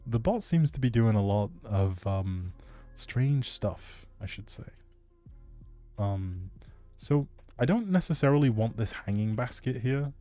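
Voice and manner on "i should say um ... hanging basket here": normal talking voice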